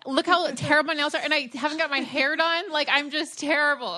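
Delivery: high, laughing self-mockery. Real, not acted. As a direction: laugh at yourself, embarrassed. Self-mocking laugh about her nails.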